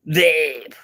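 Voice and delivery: Vape said "vep" again, short and jokey; vape with a long e. Shown as a demonstration. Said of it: "not vape".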